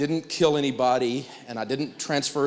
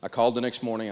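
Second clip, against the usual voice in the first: ordinary talk, nothing marked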